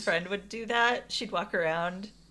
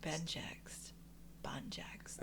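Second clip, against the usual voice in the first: whisper; 4 semitones lower, 18 dB quieter, much slower than usual. Pretend. Whispering the word back and forth.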